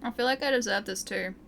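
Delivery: talking while chewing; words round a bite of food; mouth full. Real, not acted. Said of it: "Sorry for the eating sounds".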